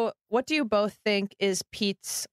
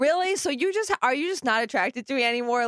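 high, fast wounded whine that comes down; hurt girlfriend; 4 semitones higher, faster than usual. Retold or imitated. Mocking how a girlfriend reacts to him farting, high whine. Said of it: "you're just like".

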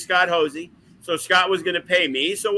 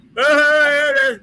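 imitated giggling; 10 semitones higher, 6 dB louder than usual. Locker room giggling at Davey.

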